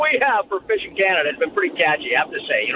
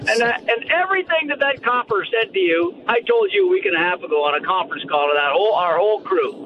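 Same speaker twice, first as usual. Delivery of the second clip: playful fake outrage, pitched up; mock complaint; 5 semitones higher than usual. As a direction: pretend to be wronged and indignant.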